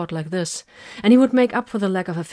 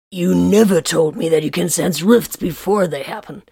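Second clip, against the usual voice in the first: flatly; 4 dB louder than usual. A narrator's reading. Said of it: "he said flatly".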